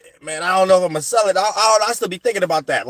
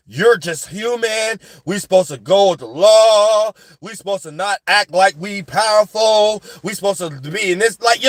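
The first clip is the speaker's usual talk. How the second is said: mock lecturing; 3 semitones higher than usual. Voices jealous people preaching submission.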